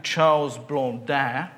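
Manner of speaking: a French accent on the name Blondin; lightly put-on French accent for a name. Shown as a demonstration. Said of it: "I hope you like my French accent".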